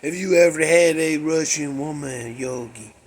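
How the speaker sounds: low, loosely imitated Russian accent; half-managed Russian accent; bad Russian accent. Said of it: "she had that Russian accent".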